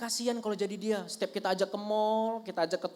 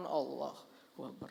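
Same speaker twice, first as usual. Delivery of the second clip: imam's call; 8 semitones lower, 12 dB quieter, slower than usual. Retold or imitated. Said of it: "Imamnya di depan".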